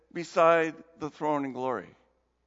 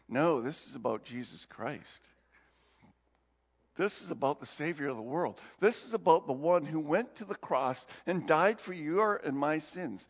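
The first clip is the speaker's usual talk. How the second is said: earnest explanation; 4 semitones lower than usual. Retold or imitated. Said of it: "he explains".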